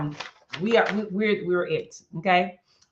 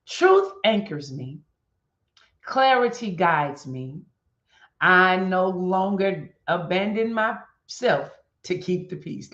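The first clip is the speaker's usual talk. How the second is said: mantra; slower than usual. Acted. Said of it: "let's say our morning mantra".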